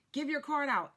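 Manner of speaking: wife mimicking her husband's pep talk, loud and pushy. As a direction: nag her to hustle, hammed-up. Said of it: "my husband is like".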